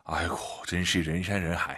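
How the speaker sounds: 아이고 sighed, 真是人山人海 said wearily with a fall; exasperated sigh demo. Shown as a demonstration. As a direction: groan at the crowds, then say it. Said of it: "이렇게 쓰는 거죠". (아이고 한숨 섞어 지친 듯이)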